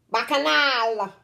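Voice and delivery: "Bacchanal" stretched out slow and singing; stressed, melodious word. Shown as a demonstration. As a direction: draw out "Bacchanal" with a held last syllable. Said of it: "We like to stress on the words".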